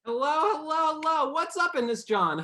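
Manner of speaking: high-pitched, loud mock Philadelphian greeting; Philadelphian accent. Shown as a demonstration. Dialect coach greeting the host, mock Philadelphian accent. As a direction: ham up a Philadelphian hello. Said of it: "that's a Philadelphian for hello".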